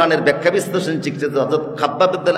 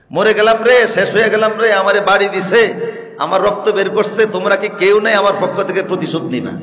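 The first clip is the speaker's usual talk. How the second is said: raised, high-pitched cry for help; mock wailing outcry; 3 semitones higher than usual. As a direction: cry out like a wounded man demanding revenge. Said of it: "এখন সে চিৎকার দেওয়া শুরু করছে". (আহত মানুষের নকল চিৎকার)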